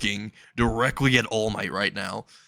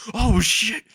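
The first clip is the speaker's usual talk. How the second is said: mock alarm; 11 semitones higher, 3 dB louder than usual. Boy sees pursuer swooping at him.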